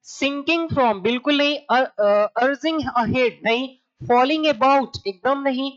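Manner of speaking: slow, firm ruling out of wrong options; slow rejection. Shown as a demonstration. Teacher dismissing wrong answer choices for the class, slowly. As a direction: rule each option out slowly and firmly. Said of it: "teacher rejects options".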